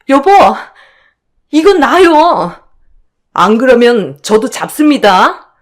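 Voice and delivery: outraged outcry. Acted. Narrator yelling at her sister-in-law pulling her hair. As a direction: protest sharply while being grabbed.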